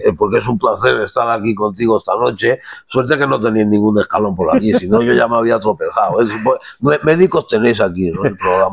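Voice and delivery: lightly voiced old king, unhurried and formal; a hint of the old king's stately tone; king emeritus impression. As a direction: play the elderly king chatting as a guest. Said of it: "con el rey emérito no me hace falta pensarlo".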